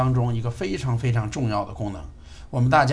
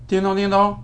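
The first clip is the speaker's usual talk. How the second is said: calling wake word; 6 semitones higher, 3 dB louder than usual. Real, not acted. Wake word called to speaker.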